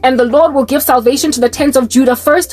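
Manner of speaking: measured Bible reading voice; solemn recital of Zechariah; scripture reading. Acted. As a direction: read it like a prophecy from the pulpit. Reads scripture prophecy aloud.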